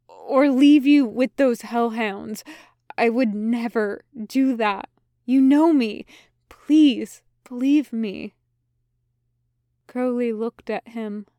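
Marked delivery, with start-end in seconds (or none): 0.1-8.4 rising, louder desperate plea; desperate pleading. Acted. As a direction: beg him to believe you. Crowley pleads to be believed.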